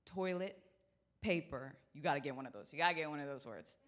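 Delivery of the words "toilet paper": slowed down. Retold or imitated. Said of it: "I slow it down ... leave it to two words".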